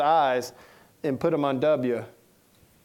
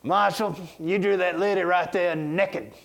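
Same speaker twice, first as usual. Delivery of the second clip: offended lady caller; 3 semitones higher, slower than usual. Retold or imitated. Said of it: "And she said".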